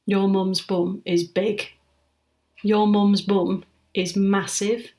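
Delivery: slow, drawn-out playground taunt; half-speed teasing quote; mocking taunt. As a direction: spell the taunt out word by word, slowly. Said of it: "people used to say to me".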